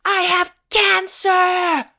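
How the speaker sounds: high, slow, drawn-out yell; retold yelling. Patient to the driver who nearly hit her, drawn-out yell. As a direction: stretch each word into an outraged yell. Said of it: "it ended with me yelling at him".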